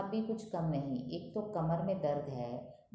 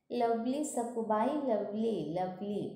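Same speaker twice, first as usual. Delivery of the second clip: gushing memsahib; 4 semitones higher, 3 dB louder, slower than usual. Acted. Memsahib munching snacks.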